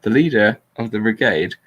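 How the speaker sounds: flat, neutral reading of a speech; monotone voice. Shown as a demonstration. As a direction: read it out flat and neutral, no spin. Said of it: "in a completely neutral monotone voice".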